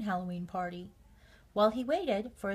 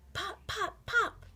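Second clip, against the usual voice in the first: rising pops; 10 semitones higher than usual. A narrator's reading. Popcorn popping in the kettle.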